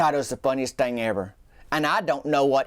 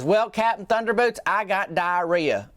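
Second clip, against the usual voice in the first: hint of a joking old lady; 4 semitones higher than usual. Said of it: "She goes".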